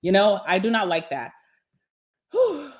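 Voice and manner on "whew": a long breathless whew; out of breath. Real, not acted. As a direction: blow out air, winded after talking. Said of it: "Sorry, I'm out of breath".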